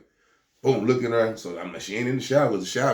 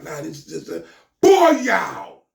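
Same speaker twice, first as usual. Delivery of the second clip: loud, high, careless friend brushing it off; tossing off a breezy dismissal; imitating the friend; 8 semitones higher, 6 dB louder, slower than usual. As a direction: friend insisting the gun is empty.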